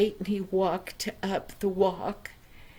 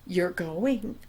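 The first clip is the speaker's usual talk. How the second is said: stern father; 4 semitones lower than usual. Acted. Father answers firmly.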